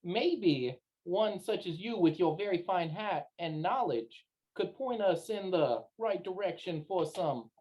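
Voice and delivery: slow, drawn-out flattering plea in character; flattering maverick. Acted. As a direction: coax him slowly with courtly flattery. Player speaking as their character.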